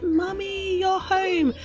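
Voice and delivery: put-on sweet small kid greeting mum; child voice. Mac greeting his mum at the door, in a very high child voice. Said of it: "he's like".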